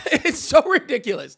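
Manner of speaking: amused, laughing disbelief. Real, not acted. Laughing at own impression.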